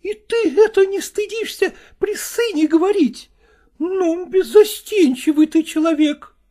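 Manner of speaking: high, nagging wife's voice, reproaching him; reproachful wife. Acted. Wife reproaching her husband over his new things, high and nagging.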